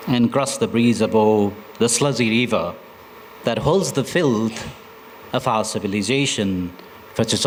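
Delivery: measured recital, phrase by phrase; poem reading. Acted. Poet reads of the Buddha's shrine to listeners, measured poem reading. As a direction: recite in set-apart lines with pauses between.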